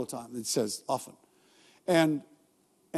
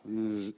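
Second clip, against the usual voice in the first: low, soft, drawn-out buzzing hum; imitated mower buzz; 10 semitones lower, 10 dB quieter than usual. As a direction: buzz like a lawnmower engine. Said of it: "when you mow your lawn, you go".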